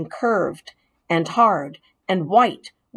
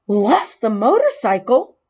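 higher and louder, rising on motorcycle; can't believe it; shocked echo; 3 semitones higher, 4 dB louder than usual. Acted. Boy echoing the mouse's confession, stunned. Keith echoes in disbelief.

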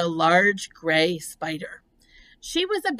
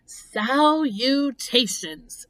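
high, slow sing-out greeting; elegant, stretched-out storybook greeting; thin voice; 5 semitones higher, much slower than usual. A narrator's reading. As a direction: draw the word out in a thin, lifted voice. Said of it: "the thin voice that had addressed him".

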